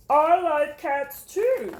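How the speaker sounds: slow, gentle teacher praising a pupil; warm teacher voice. Acted. Teacher praising Jamaica's reading, warm and slow. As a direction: praise her reading kindly.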